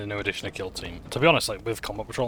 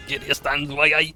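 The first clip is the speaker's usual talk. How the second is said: Geordie narrator voice again, louder, a bit higher; Newcastle accent; 7 semitones higher, 9 dB louder, slower than usual. Retold or imitated. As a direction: repeat the Newcastle narrator line with a grin. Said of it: "the Cadian accent is Newcastle".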